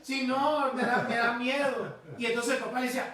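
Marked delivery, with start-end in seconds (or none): 0.0-2.0 lightly voiced hesitant child; frightened little boy. Boy balking at the jump, lightly imitated fear. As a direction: stammer a little as a mildly scared boy. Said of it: "así hablaba el morro".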